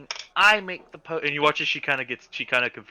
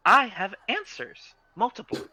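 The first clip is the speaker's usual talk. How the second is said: eager shopkeeper; 2 semitones higher than usual. Acted. Nora answers Sirocco.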